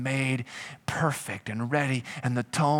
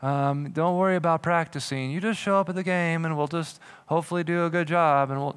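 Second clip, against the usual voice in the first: lackadaisical coach. Retold or imitated. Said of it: "a coach who's lackadaisical".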